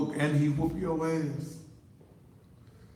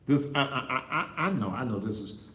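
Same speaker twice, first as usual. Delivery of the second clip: laughing. Real, not acted. Laughs at own rant.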